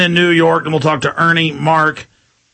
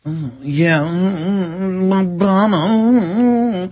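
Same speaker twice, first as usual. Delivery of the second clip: breathy, moaning mock-seductive anchor; mock sultry newsreader; 2 semitones higher, much slower than usual. Host mocks female anchors, cooing a sultry moan. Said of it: "in the little outfit going".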